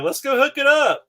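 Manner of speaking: very high, loud eager cry; boy begging to play his new Nintendo, high and loud; excited kid. Retold or imitated. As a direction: burst out like a thrilled kid.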